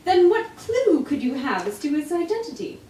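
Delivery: a hint of curious Watson. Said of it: "All accents".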